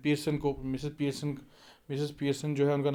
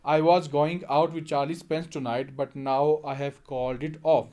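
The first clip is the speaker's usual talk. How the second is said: sulkily; 3 dB louder, much slower than usual. Acted. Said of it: "Doris सल्कीली".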